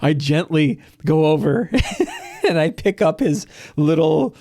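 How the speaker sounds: lightly voiced player chuckling while describing; laughing through it. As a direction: grin through the deadpan cruelty. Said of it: "Candle says".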